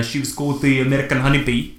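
said in a South African accent. Real, not acted. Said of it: "I'm saying it in a South African accent".

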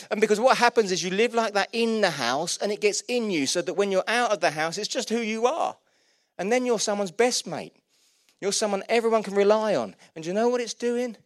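earnest, energetic sermon delivery; emphatic preaching. Real, not acted. Preaching at full force.

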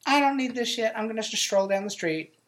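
high, carefree brush-off; breezy dismissive. Retold or imitated. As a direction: shrug it off and stroll away singing. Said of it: "she's gonna be like".

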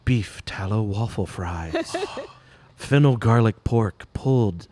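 ASMR reading. Pretend. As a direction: murmur it slowly like ASMR. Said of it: "I'm gonna make one for you".

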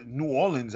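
New Orleans with short "linz"; local pronunciation. Shown as a demonstration. Accepting the city's own way, New Orleans with "linz". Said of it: "That's how you pronounce it".

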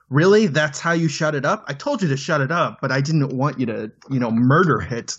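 annoyed disbelief, rising on the first word. Retold or imitated. Character scolding the man who killed the child, mock annoyance. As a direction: imitate someone irked and incredulous. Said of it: "like, an annoyance at the situation".

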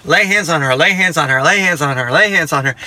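lightly imitated nagging sibling; a touch of relentless nagging; annoying brother. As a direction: repeat it over and over like a pestering brother. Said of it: "like an annoying brother".

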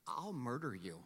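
laughing mock threat. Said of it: "And I was like".

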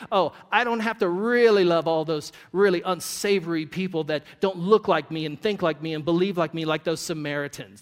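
loud, self-justifying mock; smug excuse. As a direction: argue the loophole smugly. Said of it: "a legal loophole to say".

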